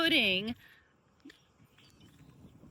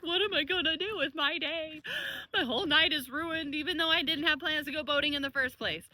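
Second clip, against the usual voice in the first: mock sad whine; 4 semitones higher than usual. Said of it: "was really sad".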